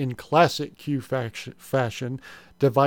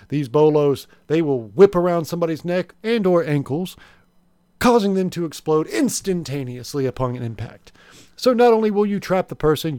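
upbeat sales pitch host; home shopping host; 5 dB louder than usual. Acted. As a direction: sell it like a TV infomercial.

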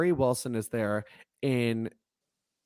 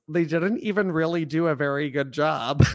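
imitating Dawn; 2 semitones higher, 3 dB louder than usual. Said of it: "I really like the way she says this".

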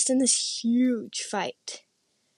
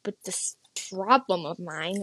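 a hint of childish protest; reluctant younger self; 3 semitones higher than usual. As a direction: lift the pitch slightly, as a reluctant kid would. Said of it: "at that age, it was just like".

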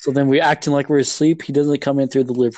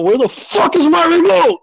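high, loud imitated outburst; retold angry yell; 14 semitones higher, 5 dB louder than usual. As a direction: yell it like a furious kid who lost something. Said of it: "He yells out".

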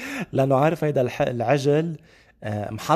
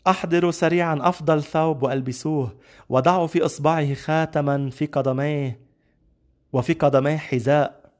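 raised, higher father's orders, a touch excited; joyful command; 3 semitones higher than usual. Acted. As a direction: give the orders with mild, eager joy. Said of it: "بفرح قال لهم".

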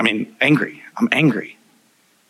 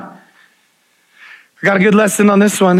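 lifted, slow; 9 semitones higher, 5 dB louder, slower than usual. Acted.

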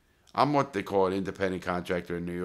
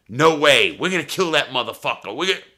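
raised, higher-pitched retold mobster outburst; angry refusal; 7 semitones higher, 8 dB louder than usual. Mobsters turning down the debt payoff, angry shouting. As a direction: shout it back as an acted mob threat.

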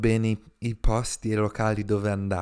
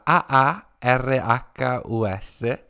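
slow letter-by-letter spelling; slower than usual. Shown as a demonstration. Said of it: "si scrive con due A".

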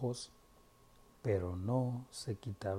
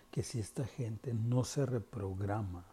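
susurro. Real, not acted. Warning about people not waking.

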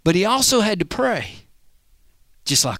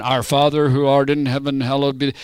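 lower, formal recited "Our Father who art in heaven"; rote recitation; 4 semitones lower than usual. Shown as a demonstration. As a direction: rattle it off like a memorised church prayer. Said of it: "Jesus wasn't going out there and saying".

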